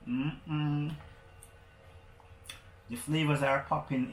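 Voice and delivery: talking while chewing chips; mouth full. Real, not acted. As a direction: speak through a mouthful of chips. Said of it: "I just started eating".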